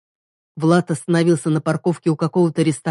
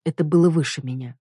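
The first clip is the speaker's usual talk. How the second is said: usual speaking voice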